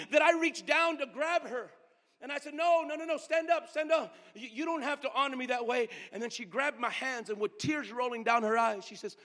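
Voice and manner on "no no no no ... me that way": urgent plea. Retold or imitated. Urging her to stand.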